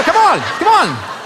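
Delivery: high, loud, drawn-out pleading yell; acted urgent shout. Man with frying pan urges girlfriend to let go, frantic mock yell.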